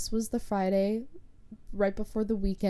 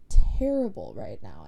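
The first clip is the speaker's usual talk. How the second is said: louder, pushing the words out in alarm; retold panicked cry; distressed outburst; 8 dB louder than usual. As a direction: let the fear spill out on it. Panicked in the car alone.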